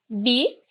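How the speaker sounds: "bi" set apart as one syllable. Shown as a demonstration. Teacher splits "bíceps" for the class, spelling out the syllable "bi". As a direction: say "bi" alone, slowly and softly. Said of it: "tem aqui a primeira sílaba".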